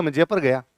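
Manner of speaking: जयपुर as "JAY-pər", short second vowel; village elder's pronunciation. Acted. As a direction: say जयपुर as old villagers do, "jepər". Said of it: "गांव में दादाजी की उम्र का कोई आदमी".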